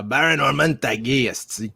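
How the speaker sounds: Quebec accent. Shown as a demonstration. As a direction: say the name like a Quebecker. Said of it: "here in Quebec, we would say".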